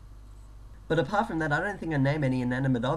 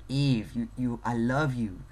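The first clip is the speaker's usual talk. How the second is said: bad Scottish accent; 2 semitones lower, slower than usual. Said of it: "completely mangling their accent".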